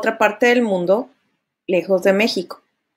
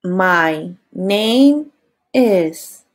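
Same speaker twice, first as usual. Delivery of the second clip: lower, careful model; model phrase; 4 semitones lower, much slower than usual. Shown as a demonstration. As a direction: say it carefully to copy. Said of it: "Listen and repeat".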